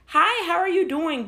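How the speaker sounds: mock the sing-song "professional" greeting; fake professional voice. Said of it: "voice as being professional".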